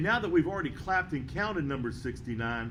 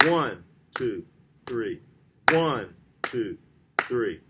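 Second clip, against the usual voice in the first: "One" hit louder, "two, three" lighter; stress on One; 5 semitones lower, 5 dB louder, slower than usual. Shown as a demonstration. Teacher showing how an accent mark sounds, stress on "One". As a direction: punch each "One", then let "two, three" fall away. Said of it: "put a little more emphasis".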